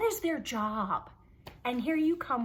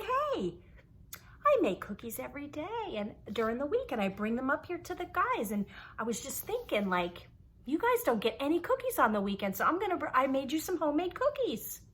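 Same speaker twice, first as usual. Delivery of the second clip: lightly voiced chirpy mom, pitched higher; a hint of a sweet mom offering cookies; 5 semitones higher, faster than usual. Mom offering cookies to the guys, bright and chirpy.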